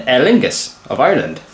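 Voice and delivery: light put-on Irish accent; a hint of Irish lilt. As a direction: slip briefly into an Irish accent. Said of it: "why I did an Irish accent".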